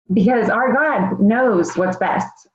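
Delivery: slow, teary, with a breaking voice; holding back tears as she thanks God; tearful. Real, not acted. Giving thanks to God in a testimony, teary and slow. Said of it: "I'll try not to cry too".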